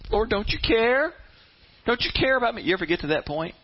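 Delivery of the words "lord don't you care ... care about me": high, plaintive plea; wounded pleading. Acted. Martha's heart crying out to the Lord, plaintive. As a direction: draw the question out high and needy. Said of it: "That's what her heart is saying".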